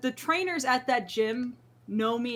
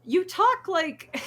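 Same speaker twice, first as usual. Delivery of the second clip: much slower, higher, louder teasing voice; imitating the trainers; 9 semitones higher, 5 dB louder, much slower than usual. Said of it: "And they're just like".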